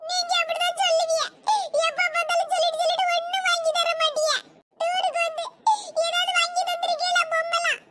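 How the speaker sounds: put-on whiny, tearful child's protest; tearful complaint. Child complains to mother about never getting toys, tearful whine. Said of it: "சரி, சரி, அழாத".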